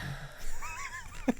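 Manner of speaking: high burst of laughter; quick laugh breaking out. Real, not acted. Laugh mid sentence.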